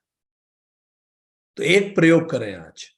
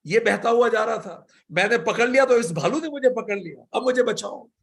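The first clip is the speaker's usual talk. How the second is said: Mulla Nasruddin pleading; 5 semitones higher than usual. Retold or imitated. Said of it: "Mulla Nasruddin ने बोला".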